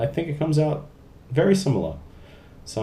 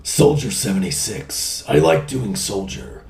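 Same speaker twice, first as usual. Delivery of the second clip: crisp loud soldier report. Retold or imitated. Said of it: "I do love doing".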